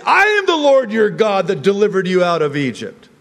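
high, loud, forceful proclamation; emphatic divine declaration. Acted. The Lord correcting calf-worshipping Israel, loud indignant declaration. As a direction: thunder it out as God, hitting "I". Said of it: "why the Lord would say".

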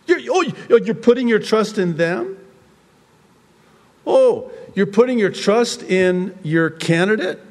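high, loud mocking questions; incredulous challenge. God challenging those who trust a candidate, incredulous. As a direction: question them in disbelief.

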